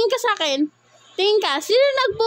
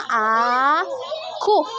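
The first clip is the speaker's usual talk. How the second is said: put-on cooing for baby to copy. Shown as a demonstration. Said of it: "gayahin mo ang bibig ni Mama".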